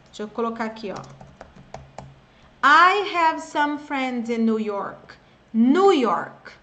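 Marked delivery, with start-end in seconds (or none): 2.6-6.5 very slow, each word clear; slow model sentence. Shown as a demonstration. Teacher giving a listen and repeat line, slowly. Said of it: "Listen and repeat".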